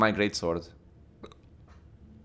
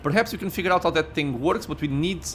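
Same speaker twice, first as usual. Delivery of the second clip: reading game text aloud; story narration; 4 semitones higher than usual. Acted. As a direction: narrate the scene with feeling. Reads game dialogue and narration.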